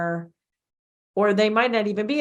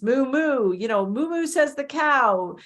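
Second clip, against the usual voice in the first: moo moo; 6 semitones higher than usual. Shown as a demonstration. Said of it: "like animal sounds".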